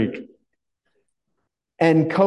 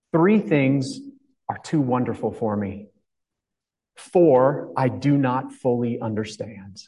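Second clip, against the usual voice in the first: scripture reading. Acted. Pastor reading Proverbs to the congregation, measured and reverent.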